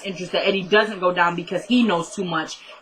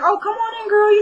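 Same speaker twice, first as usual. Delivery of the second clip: much higher, sing-out imitation of a hostess; welcoming hostess; 12 semitones higher, 3 dB louder than usual. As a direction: usher her in with a high-pitched mock welcome.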